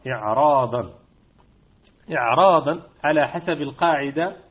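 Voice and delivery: إعراضا with a heavy emphatic ra; إعراضا مفخمة. Shown as a demonstration. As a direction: say إعراضا with a thick ra. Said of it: "فتقرأ بالتفخيم". (إعراضا بتفخيم الراء)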